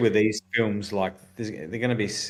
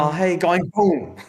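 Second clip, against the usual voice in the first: mock old lady; 8 semitones higher, 5 dB louder, slower than usual.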